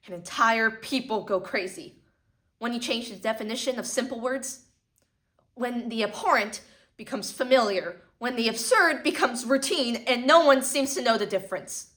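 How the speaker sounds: building from firm to loud; rising outrage. Acted. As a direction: let the anger swell line by line.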